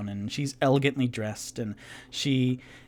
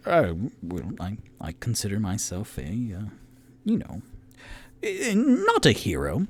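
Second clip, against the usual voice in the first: flustered, stammering modesty; a hint of a blushing humble hero; bashful Toot Toot; 3 semitones lower than usual. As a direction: shrug off the praise, embarrassed.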